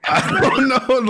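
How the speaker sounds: laughing. Real, not acted. Laughing at caller.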